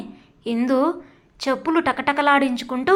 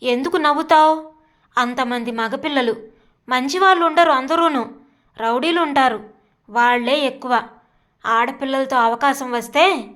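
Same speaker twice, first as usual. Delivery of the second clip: mock yell, rising in anger; shouting. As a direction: lose your temper at her laughing. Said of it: "అరిచాడు".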